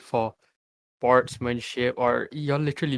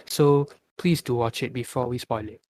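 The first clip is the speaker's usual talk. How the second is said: considerate, good-hearted request; courteous, caring heads-up; polite, kindly tone. Shown as a demonstration. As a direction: ask the listeners nicely. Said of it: "with a good heart".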